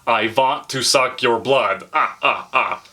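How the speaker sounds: put-on slow Hungarian-accented vampire line; drawn-out mock Hungarian vampire voice, counting-laugh at the end; Dracula imitation. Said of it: "anytime someone wants to imitate Dracula".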